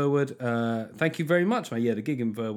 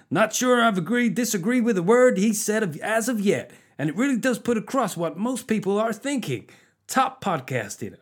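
stereotyped American; 8 semitones higher than usual. Acted. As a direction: belt out the review as a hammed-up American. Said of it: "I'm just stereotyping the Americans".

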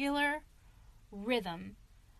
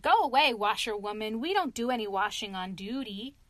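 haughty; 4 dB louder than usual. Retold or imitated. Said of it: "proud and stiff and haughty".

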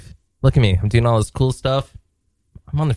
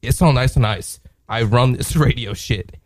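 slow poem recital. Acted. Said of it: "This one's about tonight".

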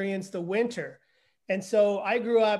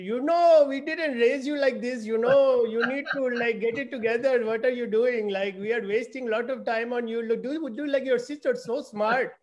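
higher, exasperated mother's voice, nagging her son; higher exasperated mom tone, not his own voice; scolding immigrant mother; 4 semitones higher, 3 dB louder than usual. Retold or imitated. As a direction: play his mother scolding him for failing. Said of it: "My mother would say to me".

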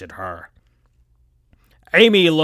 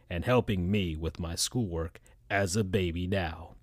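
put-on baby Knuckles; 6 semitones lower, 9 dB quieter than usual.

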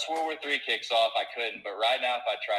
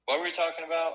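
laughing; 5 semitones higher, faster than usual. Real, not acted. Loses the thread, laughs.

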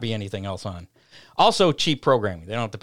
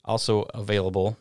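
radio ad read. Acted. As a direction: sell the parts like a race announcer. Sponsor ad read.

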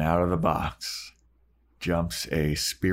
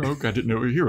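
higher, pleading repeat of the apology; groveling repeat; 4 semitones higher, much faster than usual. Retold or imitated. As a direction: say it again, higher and more desperate. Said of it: "scared to groveling".

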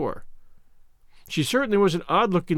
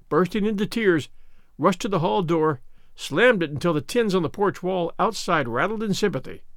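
ordinary delivery, nothing marked

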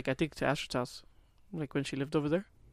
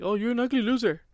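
retold taunt; 7 semitones higher than usual. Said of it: "I said something like".

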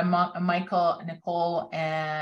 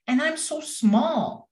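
high, slow, lightly howled wolf; howling wolf; 9 semitones higher, slower than usual. A narrator's reading. Wolf feels tiny before the fire, mild storybook howl. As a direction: draw it out high, a small howl. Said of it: "howled Wolf".

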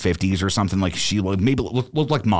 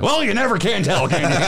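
much higher, hammed-up Chris Farley; Chris Farley impression; 12 semitones higher than usual. Deflecting the woman's prediction, a high hammed-up Chris Farley. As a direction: play Farley to brush off the prophecy. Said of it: "the Chris Farley".

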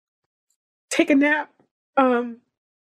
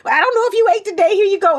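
high, fast, doting mom voice, a bit louder; imitating her mother; 10 semitones higher, 4 dB louder, faster than usual. Daughter mimics her mother bringing a bacon sandwich, high and fast. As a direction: playfully mimic a fussing mother bringing food. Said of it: "You know".

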